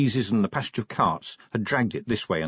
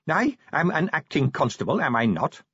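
timid clerk voice; 5 semitones higher than usual. Acted. Pessimal voiced by narrator.

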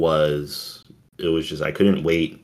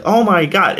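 retold awe; 11 semitones higher, 4 dB louder than usual. Retold awe watching movie.

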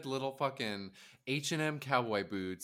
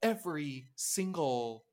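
higher-pitched, acted-out scolding; exasperated retort; 5 semitones higher than usual. Host claps back at gushing fans of a singer, exasperated. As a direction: set the clueless fan straight, pitch raised.

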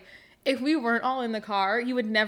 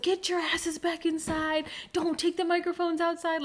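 manager yelling at the kids over the headset, mock yell; 7 semitones higher than usual. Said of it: "like, yelling at them".

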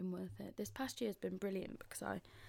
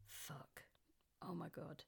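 breathy stunned whisper; shocked whisper; 4 semitones lower, 11 dB quieter, slower than usual. Retold or imitated. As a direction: whisper it in disbelief. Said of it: "And I was like".

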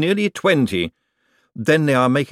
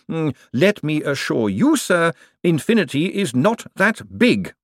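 high, scornful banker voice; withering put-down; 8 semitones higher, 3 dB louder than usual. A narrator's reading. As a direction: cut him down with sarcasm. Bent's sarcastic rebuke of Moist.

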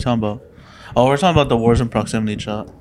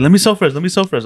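higher-pitched mock begging; imitated desperate pleading; 7 semitones higher, 3 dB louder than usual. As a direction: plead like a downed player, hammed-up. Acts out downed enemy pleading.

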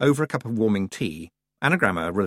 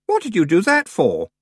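startled; 9 semitones higher, 6 dB louder than usual. A narrator's reading. Startled by kicked chair.

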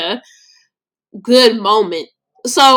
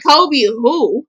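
disbelief; 4 semitones higher than usual. Retold or imitated. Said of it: "but I'm like".

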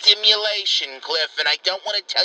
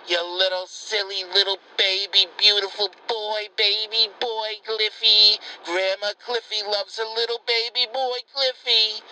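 mock-doting grandma gushing into the phone; doting coo; 2 semitones higher than usual. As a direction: gush over him like a baby in the crib. Grandma coos over her grandson.

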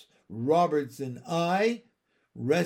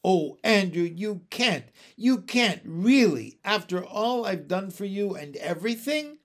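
higher, louder hurt pleading; nearly weeping; 6 semitones higher, 6 dB louder than usual. A narrator's reading. Miss Lark begging Andrew to stay, nearly weeping. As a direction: plead with him, on the edge of tears. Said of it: "Miss Lark was nearly weeping".

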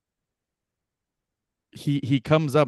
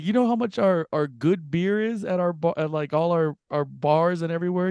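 lightly voiced eager stranger, higher pitch; mock eager question; 5 semitones higher than usual. Imitating a drunk stranger bragging about cheap beer back home. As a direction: ask it like it's big news, half-hammed.

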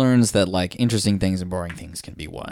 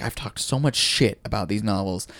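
mock aggrieved grumbling; complaining; 2 semitones higher than usual. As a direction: act out a put-upon complaint. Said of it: "'cause he's complaining".

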